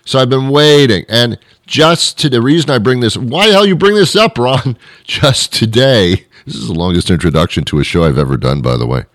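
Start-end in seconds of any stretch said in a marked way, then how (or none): 3.2-4.8 high-pitched heckle at yourself; hammed-up self-scolding; mock challenge. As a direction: interrupt yourself in a much higher, indignant mock voice. Acts out a challenge to himself.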